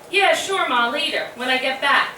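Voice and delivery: lightly voiced charming son dodging a chore; charming brush-off. Sister imitating brother sweet-talking their mother, breezy and charming. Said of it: "in his most charming Richie way".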